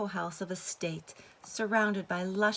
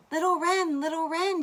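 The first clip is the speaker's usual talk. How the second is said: high, loud call into the forest; calling the wren at the forest edge; 11 semitones higher, 9 dB louder than usual. A narrator's reading. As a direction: call the little bird. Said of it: "she called out".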